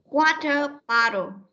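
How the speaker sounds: "Water bottle" said slowly with a gap between words; slow teaching model. Shown as a demonstration. Teacher giving the next pupil the word, slow careful model. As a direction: draw out "Water", then "bottle".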